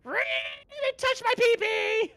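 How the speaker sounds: high, slow, whiny mockery; mock a whining complainer. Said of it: "righteous S J Ws coming out of nowhere going".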